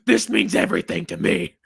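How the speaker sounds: hammed-up sincerity over a football loss; mock earnest plea. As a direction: plead it like a tragedy.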